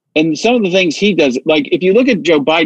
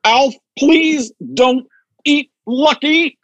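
higher, slow fretful sitcom dad; Max Wright impression; 8 semitones higher, much slower than usual. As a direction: plead like a worried TV father. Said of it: "Max Wright when he was the dad".

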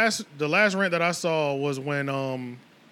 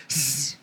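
wheezy hiss laugh; 6 semitones lower, 5 dB quieter than usual. Retold or imitated. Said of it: "when Joe Budden be like".

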